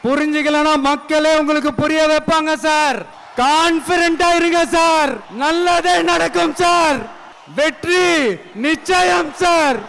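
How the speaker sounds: rally the crowd to victory; rousing finale shout. Real, not acted. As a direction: climactic shouted sign-off.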